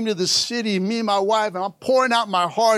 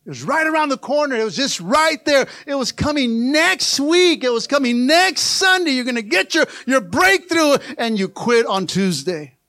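building emphasis; 4 semitones higher, 4 dB louder than usual. Acted. Preaching climax.

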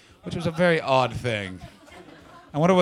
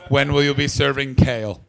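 loud, lightly voiced pompous hipster; 7 dB louder than usual. Comedian mocking the audience hipster, loud and smug. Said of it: "captain of the hipsters. Just the".

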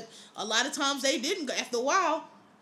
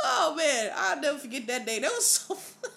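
laughing; 2 semitones higher than usual. Real, not acted. Cracking up at own story.

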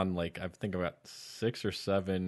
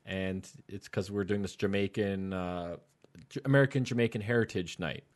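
put-on Jamaican accent; 2 semitones lower than usual. Man outside a wedding hall invites a guest, lightly imitated Jamaican accent. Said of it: "speaking in a Jamaican accent".

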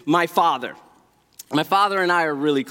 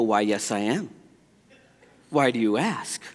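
mock casual; 9 semitones lower, 3 dB quieter than usual. I go, reply to instructor.

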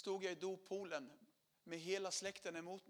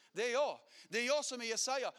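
louder, stress on "jag"; it's me, burning inside; rising conviction; 4 semitones higher, 7 dB louder than usual. Retold or imitated. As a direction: declare "jag" with growing force. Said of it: "Jag tänker".

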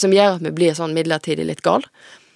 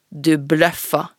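cold challenge. Acted. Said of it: "for å psyke henne ut".

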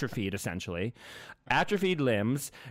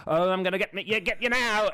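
put-on New Zealand accent; 4 semitones higher than usual. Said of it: "That's my New Zealand accent".

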